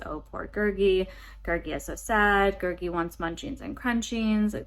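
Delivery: lightly voiced Smeagol-like creature; a hint of a self-pitying little creature; Gurgi. Reviewer showing how the pitiful creature talks, lightly imitated. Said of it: "He talks like this".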